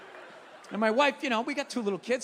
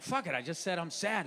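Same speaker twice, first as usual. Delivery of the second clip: mock quiet confession; 8 semitones lower, 7 dB quieter than usual. Confessing sadness to wife.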